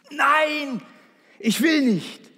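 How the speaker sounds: put-on high, loud little boy's scream of refusal. Preacher voicing a scared boy refusing to jump, high shriek. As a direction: cry out like a terrified child on the starting block. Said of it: "schrie wie am Spieß".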